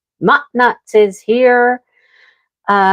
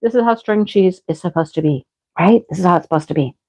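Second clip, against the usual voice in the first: delighted. Retold or imitated. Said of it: "And I'm like".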